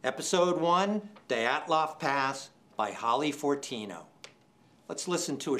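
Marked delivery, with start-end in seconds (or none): 0.0-4.0 real nervous thrill as the envelope opens; excited, shaking. Real, not acted. Chair announcing the audio winner to the livestream, nervously excited. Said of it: "I'm shaking".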